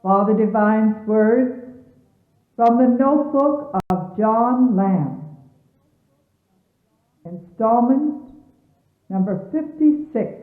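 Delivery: formal radio narration over music; stately announcer voice introducing a sermon; announcer read. Acted. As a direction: read it like a solemn broadcast introduction. Announcer names the installment.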